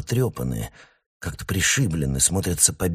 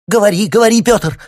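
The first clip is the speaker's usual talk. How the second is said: high piercing shriek, much louder; 13 dB louder than usual. A narrator's reading. Wife shrieks at husband to tell the guests, piercing shriek. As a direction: shriek at her husband to speak. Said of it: "взвизгнула Евдокия Васильевна".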